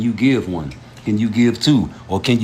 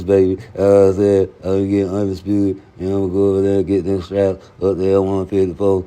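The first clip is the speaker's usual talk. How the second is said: Errol Spence impression; 4 semitones lower than usual. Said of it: "You hear how this man talk?".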